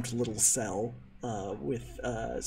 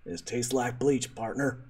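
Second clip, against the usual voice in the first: slow Texan drawl. Acted. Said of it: "speaks with a Texan accent".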